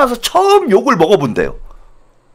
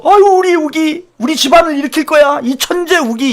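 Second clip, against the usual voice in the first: doting parent; 6 semitones higher than usual. Retold or imitated.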